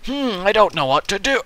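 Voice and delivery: hammed-up viewer lost in lava; mock panic. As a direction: panic up high over the lava. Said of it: "and you're like".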